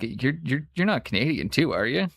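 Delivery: lightly put-on Canadian accent. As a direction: ask it like a fellow Canadian hoser. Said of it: "we can all turn the accent on".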